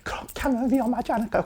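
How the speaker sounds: a soft, high, hesitant question; worried student. Retold or imitated. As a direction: play a nervous pupil fretting to the teacher. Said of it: "이런 말이 나오지".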